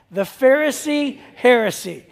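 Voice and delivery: slow, rhythmic "The Pharisee heresy" for the crowd to echo; call and response. Shown as a demonstration. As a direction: lead the congregation through "The Pharisee heresy" slowly. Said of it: "say it with me".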